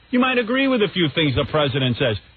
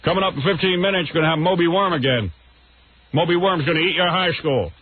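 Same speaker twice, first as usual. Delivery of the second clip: lightly mocked DJ teaser, raised a little; Imus; 2 semitones higher than usual. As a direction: plug the next bit like a radio DJ. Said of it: "That's his routine".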